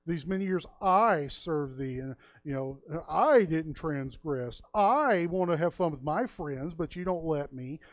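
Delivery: the righteous son listing his merits; self-righteous tone. Retold or imitated. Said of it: "that self-righteous tone there in verse twenty-nine".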